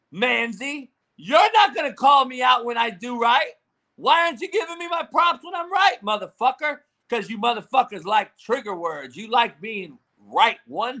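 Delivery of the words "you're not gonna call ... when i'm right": raised, higher-pitched indignant outburst; angry rant. Real, not acted. Host calling out a chatter over props, indignant rant.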